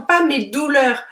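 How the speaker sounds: saying "douleurs" with a d, as a warning; marking "douleurs" as the wrong word; not douleurs. Shown as a demonstration. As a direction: stress the "pas" in "pas mes douleurs".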